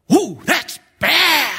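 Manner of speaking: high, slow, hammed-up sympathy; sympathetic customer. Preacher mimics a barber's customer, hammed-up high sympathy. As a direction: moan it like a wincing customer. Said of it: "the guy sitting in the chair would go".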